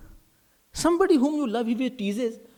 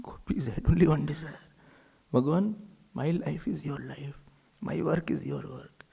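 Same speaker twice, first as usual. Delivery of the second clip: intimate devotional whisper; 3 dB louder than usual. Real, not acted.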